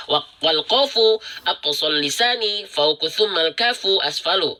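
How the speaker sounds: slow, measured chanted recital; recitation. Acted. Teacher reciting the rule verse for students, slow. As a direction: intone the Arabic line carefully.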